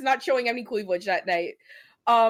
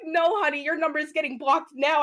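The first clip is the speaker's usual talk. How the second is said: sassy brush-off; 7 semitones higher, 4 dB louder than usual. Retold or imitated. Dismissing him.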